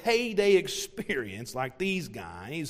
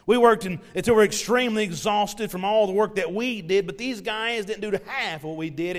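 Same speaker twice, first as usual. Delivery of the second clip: indignant workers' complaint. Pretend. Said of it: "said something like this".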